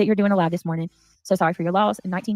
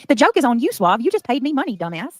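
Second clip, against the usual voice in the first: higher, laughing taunt; gloating laugh; 5 semitones higher, 5 dB louder than usual. Real, not acted. Taunting a donor who paid to insult her, laughing gloat.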